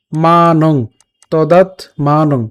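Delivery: "মানং" slow, long first syllable and ng ending; anusvara ng. Shown as a demonstration. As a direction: say "তদাত মানং" slowly, closing on ng. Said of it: "অনুসারের মতোই উচ্চারণ করছি".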